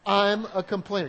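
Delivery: loud, emphatic group confession. Shown as a demonstration. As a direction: say it out loud with the crowd. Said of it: "Would you say that together with me".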